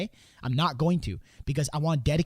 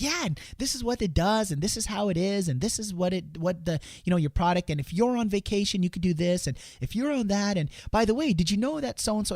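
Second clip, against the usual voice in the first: higher, rushing eager sales patter; overexcited pitching; 5 semitones higher than usual. Retold or imitated. Salesman over-talking at the door, excited higher patter. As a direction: gush about the product too much. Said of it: "I got super excited".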